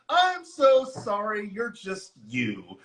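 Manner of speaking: slow mock apology, sinking at the end; imitated condescending boss. Repeating the boss's insult, slow imitated condescension. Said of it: "her boss looks at her and she goes".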